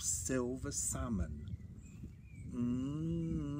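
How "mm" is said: drawn-out hungry "mm", higher in pitch; hungry mumble. A narrator's reading. Bear spots plump salmon, hungry hum. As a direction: hum with appetite, rising gently. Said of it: "he mumbled as his tummy rumbled".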